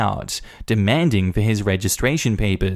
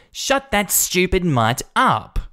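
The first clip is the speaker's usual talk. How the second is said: snappy Karen; 9 semitones higher, slower than usual. Acted. Karen yelling at dog.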